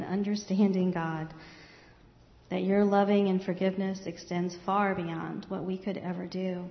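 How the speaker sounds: calm, earnest closing prayer. Real, not acted.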